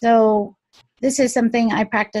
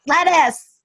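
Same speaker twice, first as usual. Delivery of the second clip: incredulous; 7 semitones higher, 5 dB louder than usual. Real, not acted. Exclaims her surprising trigger.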